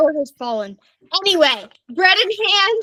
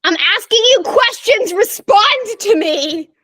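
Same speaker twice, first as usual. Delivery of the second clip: loud, slow, exasperated demand; slow it down, fed up; 4 semitones higher, 4 dB louder than usual. Real, not acted.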